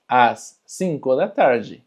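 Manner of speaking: "Às cinco da tarde" slowed down for the learner; slow, careful model repeat of "Às cinco da tarde". Shown as a demonstration. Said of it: "Eu vou embora às cinco da tarde".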